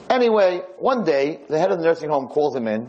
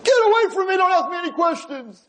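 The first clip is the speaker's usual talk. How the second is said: angry shout. Acted. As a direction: yell him away from your bed. Friedman shouts at Lefkowitz at night.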